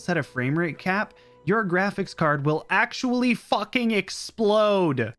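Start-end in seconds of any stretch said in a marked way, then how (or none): 1.4-5.1 mock outrage. Real, not acted. Outraged joke about exploding cards.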